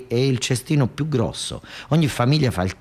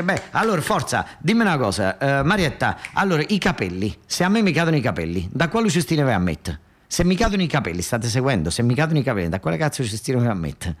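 Marisa quizzing; 4 semitones higher than usual. Retold or imitated. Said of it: "e ci dice".

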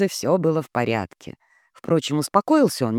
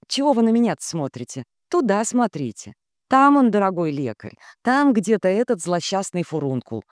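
exasperated mother; 5 semitones higher than usual. Acted. Mother voiced, quick.

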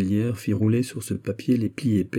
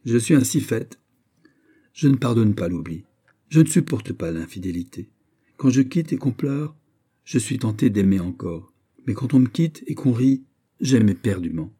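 proud declaration; 3 semitones higher, 4 dB louder than usual. Acted. Marguerite declares her pride.

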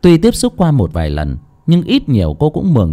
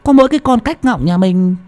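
lightly voiced, higher puzzled old woman; puzzled muttering; 9 semitones higher than usual. Old woman puzzling to herself over the strange child. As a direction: wonder aloud in mild confusion. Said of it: "ngơ ngơ ngác ngác".

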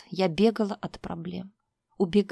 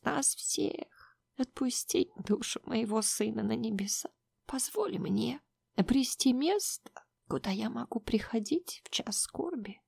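hushed grieving mother. Acted. Grieving mother confesses, blesses union.

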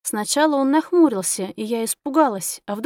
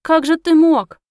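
high, much louder tearful cry; 6 semitones higher, 8 dB louder than usual. A narrator's reading. Heroine crying out after vanished Reus, tearful wail. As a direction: wail it at the empty road.

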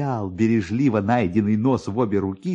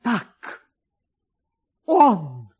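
higher, then a loud burst; joyful shout; 7 semitones higher, 5 dB louder than usual. A narrator's reading. Kovalyov cries out loud on seeing his nose. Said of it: "закричал Ковалёв".

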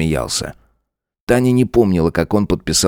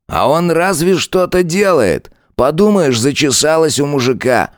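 mocking lieutenant; 10 semitones higher than usual. Lieutenant Saigar mocking Tanya, lightly voiced sneer. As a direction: lean into the lines like a smug bully.

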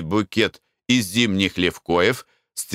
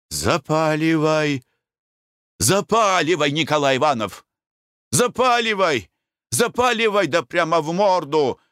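high, excited shouts egging him on; shouting; 6 semitones higher than usual. Acted. Konurin shouts at his friend during the flower battle, high excited yelling. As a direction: yell it, urging your friend to throw. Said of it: "кричал Конурин".

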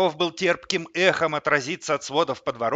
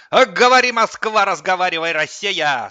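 very high, loud folk holler, easing down; wild anguished yell; 7 semitones higher, 11 dB louder than usual. A narrator's reading. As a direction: belt out a reckless ditty. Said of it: "с разгульной тоской заорал он вдруг". (орать с разгульной тоской)

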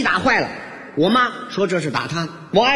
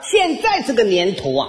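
high, singsong praise; gushing mother-in-law; 4 semitones higher than usual. Retold or imitated. Mother-in-law praises son-in-law to neighbours, high gushing voice. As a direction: proclaim it to the crowd in a high put-on voice. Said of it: "一边夸我".

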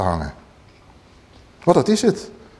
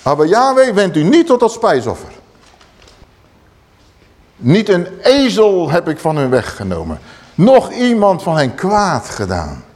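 forceful Moses; 2 semitones higher than usual. Acted. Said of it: "Zo krachtig zegt Mozes dit".

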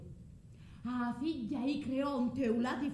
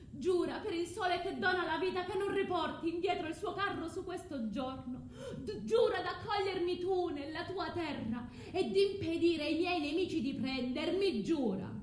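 urgent demand; 5 semitones higher than usual. Acted. Medea demands an oath.

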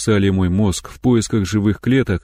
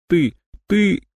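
choked up; 9 semitones higher than usual. Acted. Holding back sobs, stammering.

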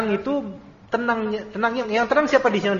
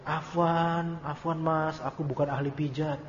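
imitated apologetic refusal; 2 semitones lower, 6 dB quieter, slower than usual. Wife declining to massage her husband, mock apologetic. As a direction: mimic a wife politely begging off.

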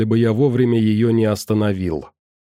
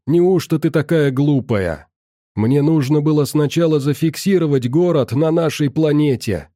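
exasperated; 4 semitones higher than usual. Acted. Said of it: "закричал Ганс".

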